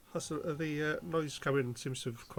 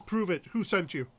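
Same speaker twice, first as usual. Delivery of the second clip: demanding guard; 4 semitones higher, 5 dB louder than usual. Acted.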